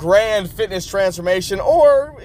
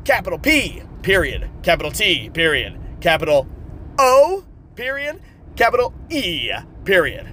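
dictating; 2 semitones lower than usual. Shown as a demonstration. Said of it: "go ahead and write down the law of Peto".

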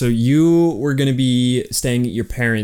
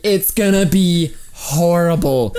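mock Southern accent; 6 semitones higher than usual. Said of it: "they don't say it in a Southern accent".

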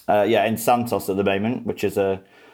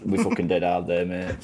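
Grimsby accent; 4 semitones lower than usual. Shown as a demonstration. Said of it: "can you do a, a Grimsby accent?".

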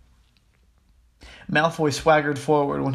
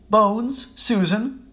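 higher-pitched roll-call voice; calling out names; 6 semitones higher, much slower than usual. Acted. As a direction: call the next name across the hall.

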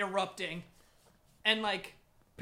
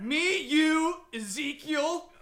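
laughing echo; 8 semitones higher, 8 dB louder, much slower than usual. Retold or imitated. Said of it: "echoing friend's invite".

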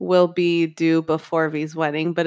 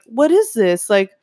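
confused; 7 semitones higher than usual. Retold or imitated. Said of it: "confused about the test".

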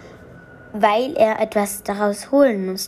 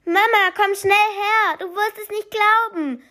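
excited calling; 10 semitones higher than usual. Acted. The boy calls his mother to come see, high and excited. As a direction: call her over, bursting with news.

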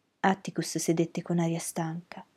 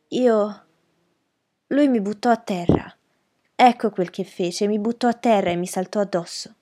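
higher voiced girl, insistent; agitated young witness; 3 semitones higher, 6 dB louder than usual. Witness girl insisting to the lawyer, higher and agitated. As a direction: push the answer out, higher and a touch louder. Mayella insists she was thrown down.

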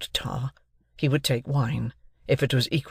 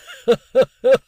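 a loud, high, fat guffaw; fat laugh; 11 semitones higher, 9 dB louder than usual. A narrator's reading. Pumblechook flattered by the sergeant, loud fat laugh. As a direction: burst out in a pleased, plump laugh. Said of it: "with his former laugh".

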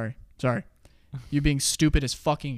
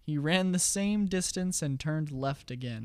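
slow and deliberate. Acted. Riddle repeated slowly.

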